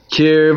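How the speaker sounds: "kirvu" with stress on the vav, KIR-VU said clearly; teaching pronunciation. Shown as a demonstration. Teacher models the word for the class, careful and clear. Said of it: "We say".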